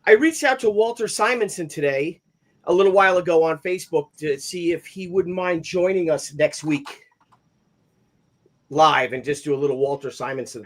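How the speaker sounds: breathless after running upstairs; talking while catching breath. Real, not acted. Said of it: "I'm out of breath".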